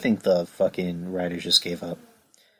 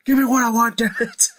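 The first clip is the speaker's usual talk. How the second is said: much higher, laughing put-on boss voice; Triple H. Mocking Triple H demanding, high with laughter. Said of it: "why am I doing a Triple H impression".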